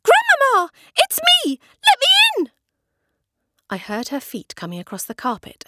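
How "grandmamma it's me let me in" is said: much higher, full-throated call; loud shout. A narrator's reading. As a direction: yell through the door to grandmother. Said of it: "I shouted as loudly as I possibly could".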